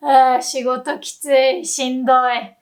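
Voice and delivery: groaning あー then a weary grumble; exhausted complaint. Shown as a demonstration. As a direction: moan like a tired salaryman. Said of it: "Complain like this and you will sound like an exhausted Japanese salaryman".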